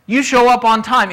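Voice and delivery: You show up on time, said firmly as a final order; firm command. Shown as a demonstration. Boss firmly ordering a late employee, stern. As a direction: press the rule home firmly. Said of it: "now I'm telling you so firmly".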